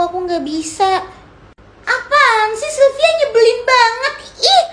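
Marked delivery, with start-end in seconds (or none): 1.9-4.6 annoyed snap. Acted. Lenong irritated when refused.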